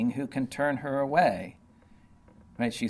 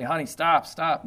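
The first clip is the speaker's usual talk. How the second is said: raised, higher voice begging her to stop; pleading husband; 4 semitones higher than usual. Acted. Husband pleading with his determined wife, raised and begging. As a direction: call out to make her stop.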